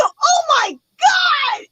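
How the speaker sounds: high, very drawn-out wail; retold freak-out. Retelling the sight of guns, high drawn-out wail. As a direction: stretch it into a dramatized panicked cry. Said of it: "why I was freaking out".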